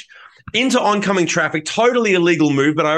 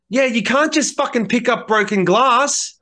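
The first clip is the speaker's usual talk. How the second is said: mocking scorn; 7 semitones higher than usual. Girl mocks the bleeding boy.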